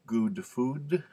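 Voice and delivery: GOOD with the long oo of FOOD; drawn-out "good food", both words with long oo; demonstrated learner vowels. Shown as a demonstration. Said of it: "or do they say".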